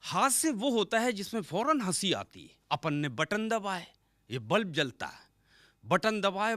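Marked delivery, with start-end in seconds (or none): none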